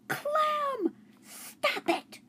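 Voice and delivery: put-on high girl's voice, firm and sharp; young girl scolding the dog, firm; firm shout. A narrator's reading. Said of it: "she shouted in a very firm voice".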